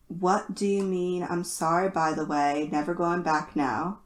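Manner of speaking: earnest, steady reading of song lyrics; serious lyric reading. Acted. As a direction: read it like a solemn poem. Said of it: "I'm going to attempt to be as serious as possible".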